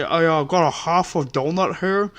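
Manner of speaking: mumbling "I got a half a donut here" as if chewing; mock a customer talking through food; mouthful of food. Cashier mocks chewing customer, mouth full. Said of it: "with a mouthful of food".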